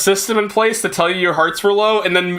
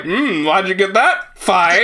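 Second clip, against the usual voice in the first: sarcastic skeptical; 2 semitones higher, slower than usual. Pretend. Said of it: "And it's like".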